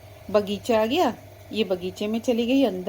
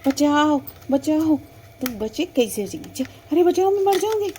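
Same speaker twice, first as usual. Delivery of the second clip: loud, high panicked calls for help; screaming as she's pushed toward the water; cries for help; 3 semitones higher, 3 dB louder than usual. Acted. Girl being pushed into pond. (घबराकर ज़ोर से मदद के लिए चीखना)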